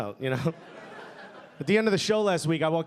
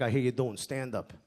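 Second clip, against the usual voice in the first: menacing uncle; 5 semitones lower, 3 dB quieter than usual. Retold or imitated. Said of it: "he's like".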